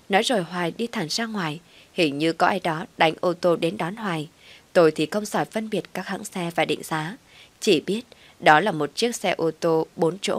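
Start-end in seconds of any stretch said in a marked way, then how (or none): none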